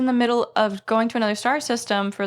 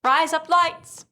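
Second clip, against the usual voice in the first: higher, slow, badly faked Australian accent; exaggerated Australian accent; 6 semitones higher, slower than usual. Shown as a demonstration. Cohost proving they know specific phrases, worse Australian accent, higher and drawn out. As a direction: stretch out a clumsy Australian twang, pitched up. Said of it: "That was the same thing, but worse".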